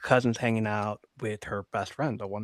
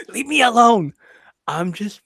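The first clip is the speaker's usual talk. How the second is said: higher, laughing through the words; giggling mock plea; 12 semitones higher, 8 dB louder than usual. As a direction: plead while cracking up. Retelling pleading to mom.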